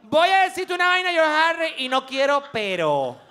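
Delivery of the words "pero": put-on timid kid. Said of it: "ni siquiera Pero".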